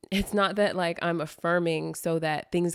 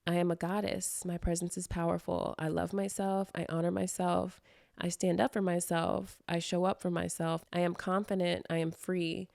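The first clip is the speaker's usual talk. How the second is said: affirmation reading. Acted. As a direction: declare each line calmly to yourself. Reads her affirmations aloud.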